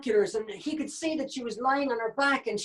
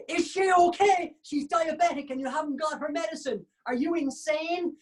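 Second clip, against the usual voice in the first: shrill panda chorus; 8 semitones higher than usual. Acted. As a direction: scold him as a squeaky panda. Other pandas voiced accusingly.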